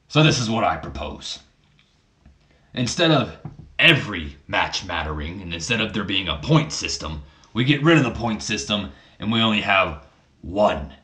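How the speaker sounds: lightly voiced boss making a formal proposal; Vince McMahon. Father proposing one deciding match to his son, mild impression. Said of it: "Vince McMahon, how do you speak?".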